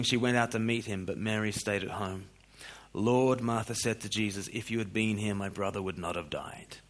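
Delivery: low, soft Bible reading; scripture reading. A narrator's reading. Reads Bible passage aloud.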